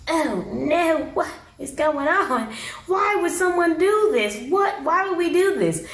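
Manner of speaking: high, drawn-out mock bewilderment; mock appalled. The speaker judging the bucket flush, mock appalled. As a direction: imitate a squeamish man, stretching out the dismay.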